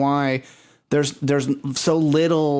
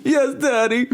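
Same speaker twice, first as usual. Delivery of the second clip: put-on meek child; 11 semitones higher, slower than usual. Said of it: "I was like".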